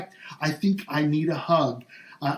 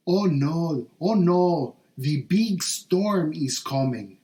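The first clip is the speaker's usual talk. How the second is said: mommy's voice; slower than usual. Retold or imitated. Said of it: "And she did talk like that".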